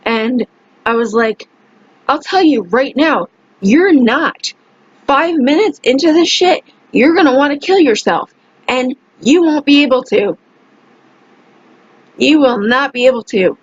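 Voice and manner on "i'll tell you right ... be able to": higher-pitched, emphatic retold scolding; angry warning. Telling the man he is not strong enough, angry. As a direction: set him straight with heated insistence.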